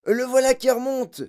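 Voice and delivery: plus aigu et fort, excité; hurlé. Acted. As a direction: hurler en pointant le tuyau. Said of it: "hurla quelqu'un". (un témoin hurle en montrant le tuyau, aigu)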